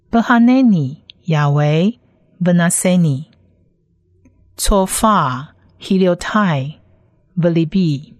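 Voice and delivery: Hebrew in separate words, pauses between; Hebrew read-aloud. Shown as a demonstration. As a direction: model each Hebrew word for learners. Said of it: "先来把整句的原文念几次". (逐词停顿示范朗读希伯来文)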